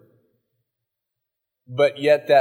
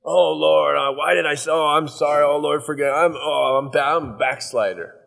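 acted wailing apology to God; hammed-up penitent moan; mock remorse. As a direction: beat yourself up in a put-on sorry voice. Acting out self-reproach after yelling.

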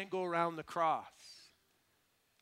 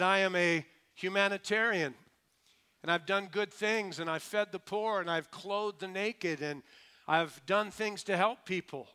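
higher, louder, listing his good deeds; earnest self-justification, pitched up; self-justifying man; 4 semitones higher, 5 dB louder than usual. Acted. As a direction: plead your case at heaven's gate, emphatically. Man pleading merits at heaven's gate.

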